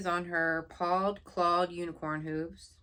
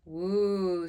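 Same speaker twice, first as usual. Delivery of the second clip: impressed; 5 dB louder than usual. Acted.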